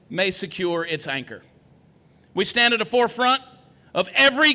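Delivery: measured oratory with weighty pauses; formal stump speech. Acted. Candidate to Texan crowd on Texas exceptionalism, formal stump oratory.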